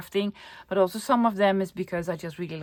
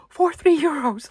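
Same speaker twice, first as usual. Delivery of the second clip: whisper; 8 semitones higher, 4 dB louder than usual. Real, not acted. Thrilled at bargain price.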